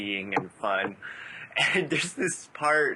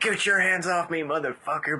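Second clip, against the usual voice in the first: mock European accent, pitched higher; The Room quote; 6 semitones higher than usual. Fan quotes The Room in a mock European accent. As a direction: imitate the movie guy's bad European accent. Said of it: "this European accent".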